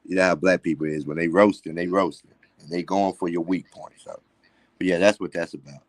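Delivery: speaking with missing front teeth; words shaped without teeth; toothless. Real, not acted. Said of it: "I ain't got no teeth in my mouth".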